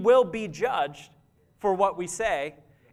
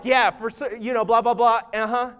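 dismissive agreement; 4 dB louder than usual. Retold or imitated. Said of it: "And then you're like".

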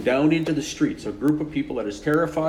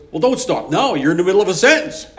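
eager; 6 semitones higher, 8 dB louder than usual. Retold or imitated. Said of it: "the woman goes".

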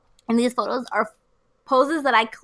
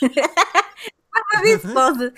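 slow, high, laughing hard; can barely get words out; hysterical laugh; 4 semitones higher, much slower than usual. Real, not acted. Helpless laughter at photos.

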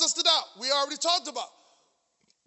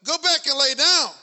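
mock scolding voice of pain, a bit louder; 2 semitones higher, 6 dB louder, slower than usual. Pain mocking the preacher's ankle, scornful. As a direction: sneer it like the pain talking back. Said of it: "That was that pain say".

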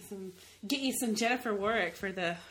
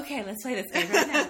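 laughing quote; 6 dB louder than usual. Retold or imitated. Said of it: "I'm like".

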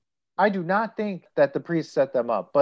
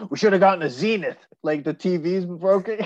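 grumpy neighbor; 3 semitones higher than usual. Retold or imitated. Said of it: "he's like".

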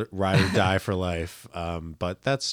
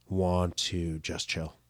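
drawn-out quote; 5 dB quieter, much slower than usual. Retold or imitated. Retelling wife's slow weekend request.

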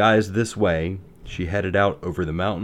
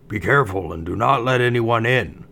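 dwarf voice; 4 semitones higher, 4 dB louder than usual. Acted. Dwarves warn Snow White.

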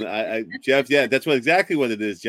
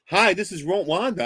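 higher-pitched mimicked phone greeting; retold caller's hello in a higher voice; imitating Wanda; 7 semitones higher than usual. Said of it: "It says".

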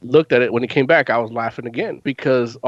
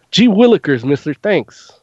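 mock naive thanks; 3 semitones higher, 5 dB louder than usual. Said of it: "And I was like".

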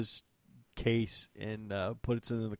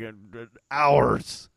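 sheepish admission; 10 dB louder, much slower than usual. Retold or imitated. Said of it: "I'm like".

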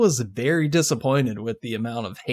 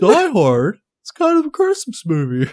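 teasing; 7 semitones higher than usual. Pretend. Teasing the Die Hard debate.

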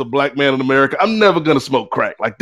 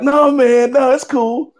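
high-pitched mock reassurance; dismissive reassurance; 8 semitones higher, slower than usual. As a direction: brush off the worry in a higher voice. Friend brushes off his doubt.

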